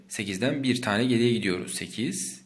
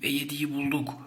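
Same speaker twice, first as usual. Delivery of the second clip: whisper; 4 semitones higher than usual. Shown as a demonstration.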